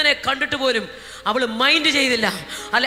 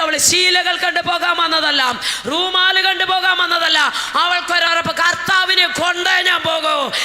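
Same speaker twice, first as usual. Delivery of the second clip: loud, raised preacher's cry; fiery preaching; 6 semitones higher, 6 dB louder than usual. Acted. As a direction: preach it out to the congregation. Preaching, building refrain. (ആവേശത്തോടെ ഉച്ചത്തിലുള്ള പ്രസംഗം)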